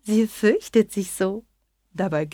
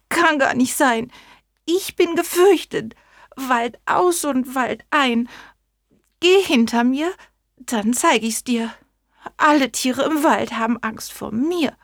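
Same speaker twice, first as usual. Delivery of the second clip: boastful mouse; 5 semitones higher than usual. Acted. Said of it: "Da sprach die Maus".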